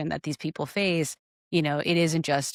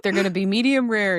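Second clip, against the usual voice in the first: sassy waitress; 4 semitones higher, 5 dB louder than usual. Retold or imitated. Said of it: "so sassy".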